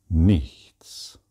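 breathy whispered single word; hushed emphatic whisper; whispered nothing. Acted. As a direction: drop to a whisper for weight. Emphatic point in spiritual talk.

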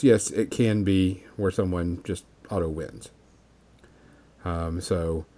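talking through hiccups; speaking with hiccups, voice dropping low. Real, not acted. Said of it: "got the hiccups".

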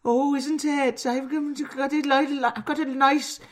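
high-pitched, halting mock Welsh accent; squeaky cartoon Welsh accent. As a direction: stumble along in a high Welsh lilt. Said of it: "One more, Welsh".

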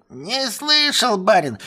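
high, drawn-out dopey voice; dim-witted servant. Acted. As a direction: play innocent and slow. Servant denying again.

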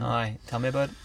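light Northern Irish accent; a hint of Belfast in the vowels. Shown as a demonstration. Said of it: "I could do a northern Irish accent".

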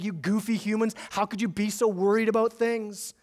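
lightly condescending god, looking down on humans; a hint of lofty scorn at goofy humans; mock high and mighty. Preacher mocking a lofty Jesus talking down, mildly condescending. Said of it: "speak so high and mighty looking on us".

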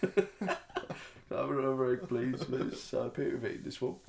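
mock Cockney orphan; Oliver-style urchin. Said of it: "it's a bit like Margate".

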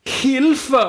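high, loud cry for help; shouted help. Acted. Knud stuck in the hole, shouting for help. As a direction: yell it from the bottom of a hole. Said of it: "så råbte han på tysk".

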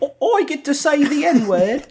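high, slow, laughing gleeful voice; delighted mock quote through laughter. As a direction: giggle through it like a gleeful kid. Mocking Louis, laughing.

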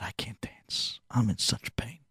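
breathy whispered confession, barely audible; pained whisper. Acted. Old man whispering his pain to the Chassid. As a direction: whisper it as if the pain steals your voice.

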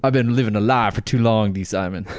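confessional, lightly mocked Black American accent; hint of an imitated Black American accent; put-on Black American accent. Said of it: "you sound like you're a black man".

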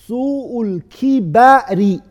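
"سوء الكبر" with kasra on the kaf and fatha on the ba, kibari; careful pronunciation. Shown as a demonstration. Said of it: "the way that you can say".

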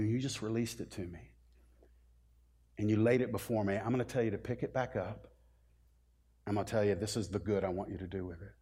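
soft, hushed, fatherly reassurance; tender voice of God. Acted. God softly tells his children to pick it up, tender and hushed.

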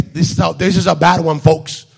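lightly imitated politician's warning; Donald Trump. President warning the public of a hurricane, light impression. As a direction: mimic a president announcing bad news. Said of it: "sale Donald Trump".

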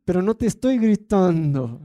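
mock angry denial. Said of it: "pero hablaba bien, bien".

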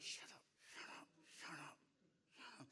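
frantic mock whisper under the breath; whispered plea. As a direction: whisper it urgently, as if not to be overheard. Panicked plea under his breath, retold.

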